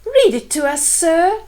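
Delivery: eager cry. Acted. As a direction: call out like excited kids. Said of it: "cried the children".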